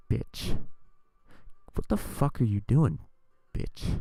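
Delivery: loud imitated yell at a stranger; mock angry yell. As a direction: bark it out like an offended old lady. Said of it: "She was like".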